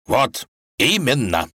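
slow, triumphant exclamation; tsar exclaiming. A narrator's reading. The tsar seizes on his daughter's guess, exclaiming. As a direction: pounce on the answer, slowly. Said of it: "воскликнул царь".

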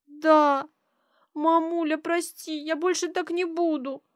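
put-on high, childlike, guilty plea; a small girl owning up; little girl's voice. Little daughter confesses to her mother in a high child's voice.

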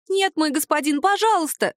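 high, wailing plea. Acted. House spirit dangling in the air wails to her master, high lament. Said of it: "запричитала Махрыня".

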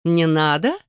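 a sneering echo, rising; mocking scoff. A narrator's reading. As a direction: scoff at the child's plea. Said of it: "хмыкнула женщина". (насмешливо хмыкая)

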